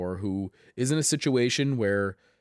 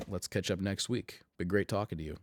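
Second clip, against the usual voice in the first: scratchy voice. Real, not acted. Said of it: "in my scratchy voice".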